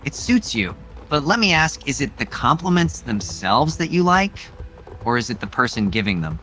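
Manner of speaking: a hint of smug flirtation; teasing suitor. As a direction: tease her like a smug courtier. Same teasing hero voice.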